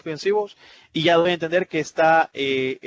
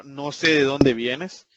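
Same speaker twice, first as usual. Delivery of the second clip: slow indirect statement; 2 semitones lower, much slower than usual. Shown as a demonstration. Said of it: "la interrogación es indirecta".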